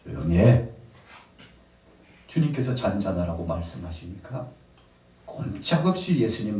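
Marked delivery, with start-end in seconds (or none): 0.0-0.7 brief acted command to hush; stern rebuke. Jesus ordering the sea still, stern. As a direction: imitate a firm silencing order. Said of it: "파도도 꾸짖으시니까".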